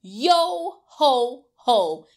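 loud, punchy pirate "Yo, ho, ho"; pirate captain call. Acted. Teacher shows kids the captain's call, loud and punchy. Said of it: "the captain's gonna say".

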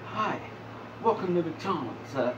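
a light mock Clinton as a drive-thru cashier; Bill Clinton voice. Gamer imagines Bill Clinton taking a McDonald's order, lightly voiced. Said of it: "put fucking a Bill Clinton voice into anything".

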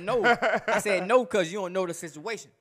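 laughing retort. Retold or imitated. Laughing while retelling his denial.

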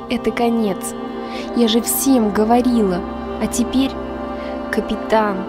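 quiet, broken grief; soft despair after the crew died; grieving. Acted.

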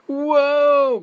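loud, high drawn-out "whoa"; alarmed groaning whoa. A narrator's reading. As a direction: wail it as you lose your balance. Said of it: "groaned Tortoise and Bird".

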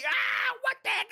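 high, loud yelp then a shocked question; startled cry. Acted. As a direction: caught off guard by an attack. Ambushed by spiders.

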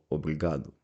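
«обрігаду» with a clear final u sound; teacher models «обрігаду»; model Portuguese word. Shown as a demonstration. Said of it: "використовуємо слово".

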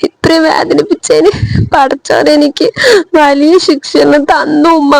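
speaking through tears, a touch of sobbing; tearful. Acted. Daughter on the phone to her mother, tearful. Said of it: "എന്തിനാ നീ കരയണ്?".

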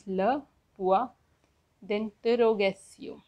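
"le point d'interrogation" in separated chunks; stressed "le", rising "point", pause, falling "d'interrogation"; French pronunciation demo. Shown as a demonstration. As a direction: model "le point d'interrogation" carefully. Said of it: "interrogation mark is pronounced as".

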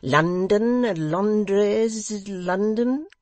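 self-important host pressing a foreigner; pompous dignity. A narrator's reading. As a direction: boom it out like a proud host. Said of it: "with dignity".

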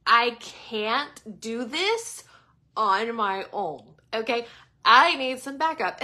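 very slow, pleading prayer to God. Retold or imitated. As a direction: drag it out, begging for help. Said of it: "I'm just like".

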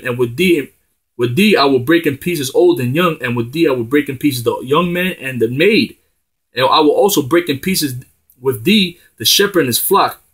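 measured sermon reading of scripture, leaning on thee. Acted. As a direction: read the verses like a preacher in the pulpit.

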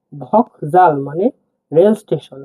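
"ভক জাল" said slowly, each syllable held apart; slow teaching repeat. Shown as a demonstration. Teacher introducing "ভক জাল" to the class, slowly. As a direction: draw out "ভক জাল" word by word for learners. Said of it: "উদাহরণ দেখলে বুঝতে পারবো".

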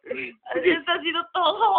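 tearful wail. Real, not acted. Partner wailing after losing.

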